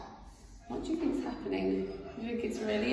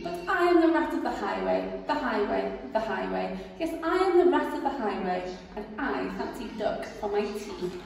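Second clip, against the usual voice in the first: boastful rat. Acted. Rat demanding the rabbit's cakes, swaggering. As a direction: demand it like a bully.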